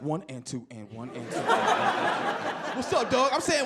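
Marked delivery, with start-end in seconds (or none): 0.0-1.4 low, soft muttered count under his breath; nervous step counting. Retold or imitated. Counting his steps while walking. 1.4-3.3 a touch of put-on street swagger; mock tough greeting; trying to sound tough. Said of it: "I'm walking the streets like".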